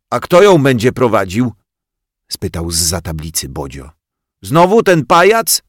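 mock the puppet; boy jeering from behind the board; heckling boy.

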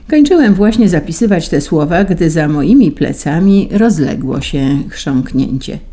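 plain reading voice

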